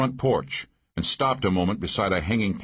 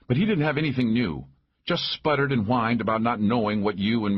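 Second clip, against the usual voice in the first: raised-pitch, brisk female character; lightly voiced woman sheriff; 4 semitones higher than usual. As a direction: report it with a touch of scorn. Narrator voices Maggie reporting to Mac.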